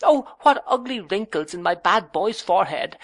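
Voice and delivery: high, playful teasing voice; teasing young wife. A narrator's reading. Young wife teases her frowning husband, high and playful. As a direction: tease him like a naughty child.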